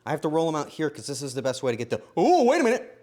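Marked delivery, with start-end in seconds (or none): 2.2-2.9 high, loud sudden realisation; startled exclamation. Real, not acted. Baker stops mid-roll on "wait a minute", startled and loud. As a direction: burst out as if catching a mistake.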